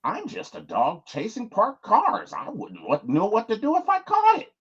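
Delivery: lightly voiced unhinged villain; Joker impression. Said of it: "get into my mode".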